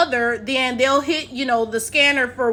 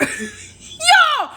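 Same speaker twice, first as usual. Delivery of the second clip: high, laughing yelps of disbelief; 7 semitones higher, slower than usual. Real, not acted. Reacting to the British airport twist, laughing hard and high. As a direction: crack up mid-question, voice up high. Cracks up at the punchline.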